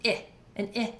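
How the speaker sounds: "I" pronounced short, as ih; short I sound. Shown as a demonstration. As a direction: say "I" as the short vowel in "sit". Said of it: "or a short I".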